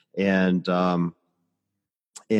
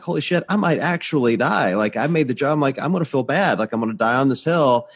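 higher, louder mock panic at the summit; 6 semitones higher, 3 dB louder than usual. On the mountain top, fearing death, higher mock panic. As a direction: gasp it out like you might die up there.

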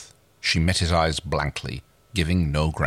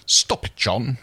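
thickly, near tears; 4 semitones higher, slower than usual. Acted. Aaron begs John through tears, thick voiced. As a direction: hold back tears on it. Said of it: "she said thickly".

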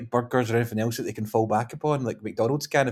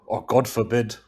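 laughing Charles voice; 5 dB louder, slower than usual. Acted. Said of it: "Let's just sound a posh voice".

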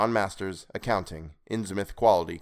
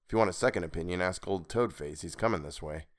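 hushed, dropping lower and softer; 3 semitones lower, 6 dB quieter than usual. Acted. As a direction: keep it low so he can't hear. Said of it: "He then lowered his voice".

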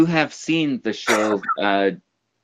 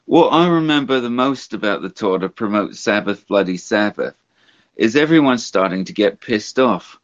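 lightly imitated rock star reading his memoir; a hint of a rambling rocker impression; a rock singer. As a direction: read it as the old rock star, lightly put on. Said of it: "I'm going to do it in a rock singer's voice".

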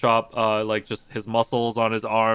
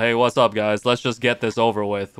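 flat monotone, bored and unbothered; monotone voice, just getting it over with; 2 semitones lower than usual. Retold or imitated. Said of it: "in his monotone voice being like".

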